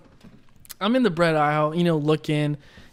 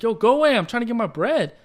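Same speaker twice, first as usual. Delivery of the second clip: trying to sound tough; 5 semitones higher than usual. Retold or imitated. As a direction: act out a child bravely warding someone off. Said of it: "I'm trying to be, like, tough".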